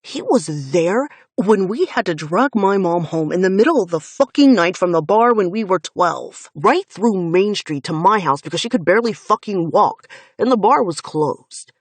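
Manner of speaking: loud, relentless, bitter account; angry recollection. Acted. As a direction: hammer each memory home. Finn recounts trauma furiously.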